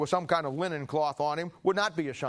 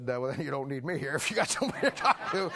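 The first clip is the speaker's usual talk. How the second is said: laughing reply. Retold or imitated. Laughing while retelling his reply.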